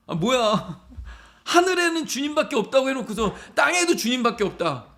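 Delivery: high-pitched, playful protest; mock incredulity. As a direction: react as if baffled by what was read. Mock protest at the psalm's repetition.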